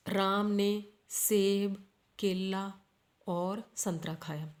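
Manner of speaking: slow list, stopping after सेब and केला, falling on संतरा खाया; short comma pauses. Shown as a demonstration. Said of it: "रुकी मैं, लगातार तो नहीं बोली". (सेब, केला के बाद थोड़ा रुककर, धीरे)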